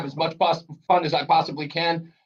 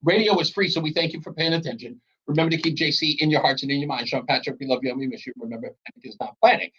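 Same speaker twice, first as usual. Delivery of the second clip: rattled-off radio closing, sinking lower; show sign-off; 3 semitones lower, faster than usual. Shown as a demonstration. Host demonstrating his show's closing, quick rote recital. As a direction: recite a well-worn sign-off, picking up speed. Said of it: "if you hear me end the show, I say".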